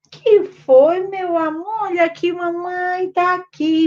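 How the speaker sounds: put-on high cooing baby talk. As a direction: comfort the baby in a high pitched coo. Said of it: "você chega". (voz aguda e carinhosa para o bebê)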